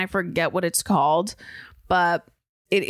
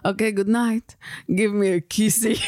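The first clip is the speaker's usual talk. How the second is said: lightly voiced Russian-spy accent. Russian spy asking for kissy, mock accent. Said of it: "That is how Russian spies look".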